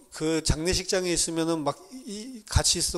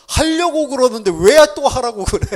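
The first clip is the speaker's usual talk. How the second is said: higher, louder mock whine of a fed-up teen; annoyed teen retort; 8 semitones higher, 10 dB louder than usual. Teenager snapping at mom who says go study, mock irritation. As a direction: toss it back like an irritated kid, hammed-up.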